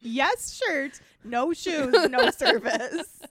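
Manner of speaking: yes, shirt, no shoes, no service spelled out slowly; slow sign recital. Pretend. Reading the shop-door rule to her friend, slow and deliberate. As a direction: read it like a shop sign, word by word. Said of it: "reciting the sign slowly".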